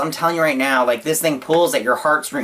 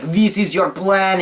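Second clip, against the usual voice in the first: slow, higher mock villain sneer; 6 semitones higher, slower than usual. Bad guy taunting Hiccup midair, slow higher mock sneer. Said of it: "the bad guy's all like".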